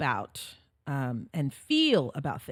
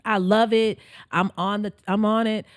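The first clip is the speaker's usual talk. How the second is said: loud, eager quote; enthusiastic follower; 4 semitones higher, 6 dB louder than usual. Retold or imitated. Voicing followers of the joy revolution, enthusiastic. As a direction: imitate a keen fan, punched out loud.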